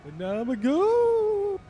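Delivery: voice changer. Pretend. Voice changer with reverb added.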